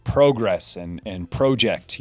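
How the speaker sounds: "progress" and "project" with a long O, PROH; British pronunciation. Shown as a demonstration. Listing British differences, long O in "progress" and "project". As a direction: say PROH-gress and PROH-ject. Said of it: "pronounced differently".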